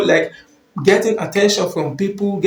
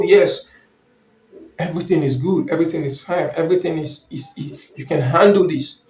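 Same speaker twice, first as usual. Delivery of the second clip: softer, calm doctor putting you at ease; calm reassuring doctor; 2 semitones lower, 3 dB quieter than usual. Retold or imitated. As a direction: gently reassure the worried husband. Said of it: "speaks with you smoothly ... very calm".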